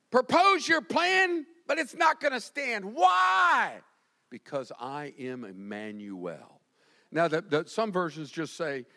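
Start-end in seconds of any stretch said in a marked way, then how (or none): 0.1-3.8 shouted high, slowed on the first words; preacher thundering God's defiance; God's shouted challenge. Acted. Preacher shouting God's challenge to the enemy, full force. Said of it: "Look what he says". 4.3-6.6 low, soft and slow; solemn quiet. Acted. Preacher quietly declaring God's name, hushed and slow. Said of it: "Look what he says".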